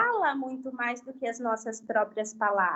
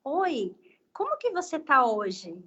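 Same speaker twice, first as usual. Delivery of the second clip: put-on gentle greeting to a child. Shown as a demonstration. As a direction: ask it gently, at the child's eye level. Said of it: "fala assim".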